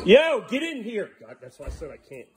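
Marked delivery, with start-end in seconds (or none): 0.1-1.1 higher, slow call to get in; higher, drawn-out call to a dog out in the cold. Real, not acted. Calling the dog inside.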